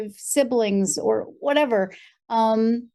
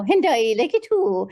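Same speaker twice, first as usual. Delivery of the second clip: stereotype Irish accent. Shown as a demonstration. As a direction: do a fake advert Irish accent. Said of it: "This is no Lucky Charms Irish Spring".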